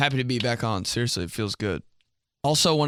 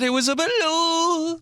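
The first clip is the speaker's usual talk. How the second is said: high, slow, sung through laughter; laughing line from a song; slower than usual. Retold or imitated. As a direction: sing it cracking up. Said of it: "I said".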